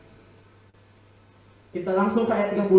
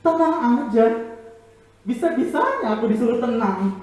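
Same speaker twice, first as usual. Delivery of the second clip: incredulous inner voice; 3 semitones higher, 3 dB louder than usual. Acted. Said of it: "dalam hati Yairus dia bilang gini".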